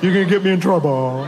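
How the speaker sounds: put-on little girl voice, laughing; daughter's excuse. Daughter sweetly explaining the giant cat to her dad, laughing.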